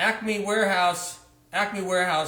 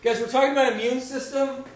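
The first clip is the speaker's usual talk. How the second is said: mom voice lingering; 5 semitones higher than usual. Pretend. Still in the mom voice.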